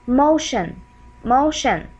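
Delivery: "motion" said clearly with sh; demonstrated pronunciation. Shown as a demonstration. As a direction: say "motion" as a careful model word. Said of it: "Like, for example".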